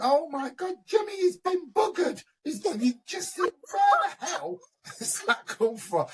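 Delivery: shrill high panic, half crying, played for laughs; imitating a mother losing it in fear; high, frantic mock wail, near tears; panicked mum. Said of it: "She's going".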